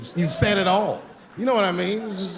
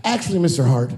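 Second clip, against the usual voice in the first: louder, polite but pushy; son's bold request; 8 dB louder than usual. Retold or imitated. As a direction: seize the invitation coolly. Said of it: "He goes".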